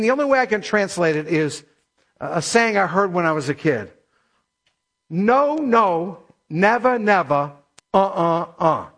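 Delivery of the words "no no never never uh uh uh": first "No" drawn out, each refusal set apart; rhythmic, stepwise refusal from "No" to "uh"; emphatic negation. Shown as a demonstration. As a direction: refuse in separate beats down to "uh, uh, uh". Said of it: "this is called emphatic negation".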